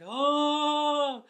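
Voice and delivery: loud, hollow ghostly oh; ghost sound. Shown as a demonstration. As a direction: moan it like a ghost. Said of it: "a low, like, ghost sound".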